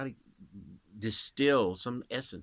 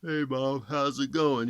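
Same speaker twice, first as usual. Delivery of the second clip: yawning voice; 4 semitones higher, 7 dB louder than usual. Shown as a demonstration. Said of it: "You just keep yawning".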